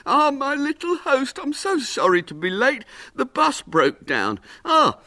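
high, effusive puppet man; little showman, eager apology. Acted. Little man greeting his boy host late, apologetic. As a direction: apologize brightly, drawing out some phrases.

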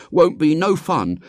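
put-on high, loud boyish grumble; discontented. A narrator's reading. William objecting to following the man, discontented. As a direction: complain like a fed-up boy.

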